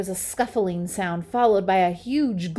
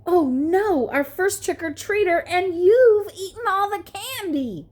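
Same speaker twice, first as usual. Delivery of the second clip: much higher and louder alarm; panicked scientist pig; 11 semitones higher, 5 dB louder than usual. A narrator's reading. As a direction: fret in a high panic.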